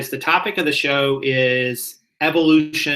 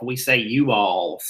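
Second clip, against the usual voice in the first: Southern accent; 4 semitones lower, slower than usual. Shown as a demonstration. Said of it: "I just went very Southern there".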